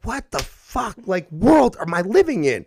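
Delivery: put-on high, strained kid voice in disbelief; child voice. Podcast host voicing a confused child, high and squeaky. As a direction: squeak it out like a baffled little kid.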